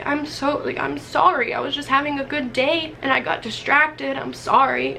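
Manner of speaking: imitating her own pleading apology. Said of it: "I'm like".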